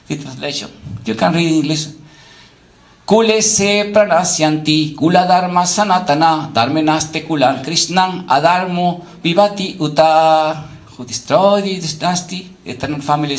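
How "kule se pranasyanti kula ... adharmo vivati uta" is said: measured chanted Sanskrit verse; sloka recitation. Acted. Teacher reciting a Gita verse to the class, intoned. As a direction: intone each line of the verse evenly.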